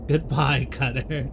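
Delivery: a hammed-up escaping villain's laugh; gloating goodbye.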